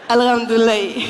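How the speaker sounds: a lightly voiced Malian accent, falling and laughing; Malian reply. Malian man answering a greeting, lightly accented. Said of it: "Ça donne, euh".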